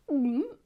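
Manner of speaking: loud, short swallow noise; exaggerated gulp for children to copy. Shown as a demonstration. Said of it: "Can you do that?".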